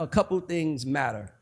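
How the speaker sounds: normal talking voice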